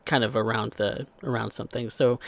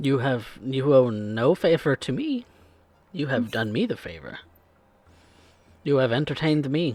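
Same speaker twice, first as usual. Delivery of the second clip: put-on Spanish-accented speech. Voicing a man who applauded the performers, in a Spanish-speaking accent. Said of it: "Spanish-speaking accent that is common in this".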